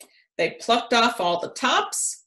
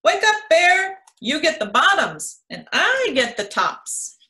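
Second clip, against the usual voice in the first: calling out; 6 semitones higher than usual. A narrator's reading. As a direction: shout up at the sleeping bear. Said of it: "Hare called out".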